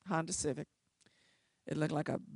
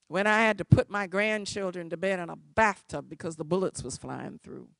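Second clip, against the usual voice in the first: angry tirade; 8 dB louder than usual. Retold or imitated. Old tenant cussing out the lawyer, loud and angry. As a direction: lash out at her, louder and louder. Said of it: "She reamed me a new one".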